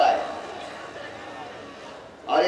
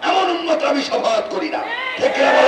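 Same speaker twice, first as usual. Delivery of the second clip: preaching shout; 7 semitones higher than usual. Real, not acted. Preacher calls out to crowd.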